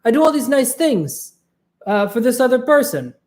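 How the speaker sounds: high-pitched exasperated rant; fed-up complaint. Retold or imitated. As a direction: whine about not getting respect. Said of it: "eventually they were like".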